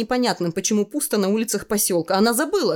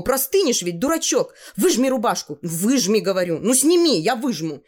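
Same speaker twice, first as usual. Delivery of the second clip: lightly voiced nagging girl, pitched up; bossy girl, scolding; 4 semitones higher than usual. Tanya orders the boy to wring out his wet shirt, scolding. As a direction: insist like a worried, bossy girl.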